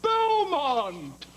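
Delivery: drawn-out, loud gushing greeting; effusive welcome. Acted. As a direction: stretch out the name to flatter the boss. Teacher greets new headmaster eagerly.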